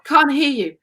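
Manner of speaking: hammed-up teacher demanding you project; mock drama teacher. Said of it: "and she was like".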